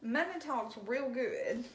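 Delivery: "Money talks real good" stretched slowly with a chuckle; laughing slow emphasis on "Money"; drawn-out laughing. Shown as a demonstration.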